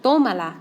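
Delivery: Tómala, first syllable stressed: TÓ-ma-la. Shown as a demonstration. Teacher repeating the word after counting vowels, emphatic. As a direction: hit the TÓ of Tómala. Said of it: "There's your accent".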